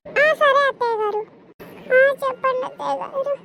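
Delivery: loud obliging call; loud reply. Acted. Daughter-in-law answers her mother-in-law's call loudly.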